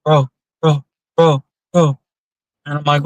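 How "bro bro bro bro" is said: in shock. Retold or imitated. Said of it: "she's sitting there in shock".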